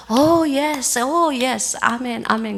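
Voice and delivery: weaker amens. Retold or imitated. Villagers hesitating about sharing radios, half-hearted amens. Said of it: "아까 많지 아멘 소리는 안 나".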